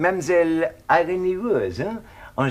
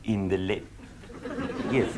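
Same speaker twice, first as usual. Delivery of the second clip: breaks into a laugh mid-word; 8 semitones lower, 7 dB quieter, much slower than usual. Acted. Laughing at the ladies' room quip. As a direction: chuckle through the half-finished word.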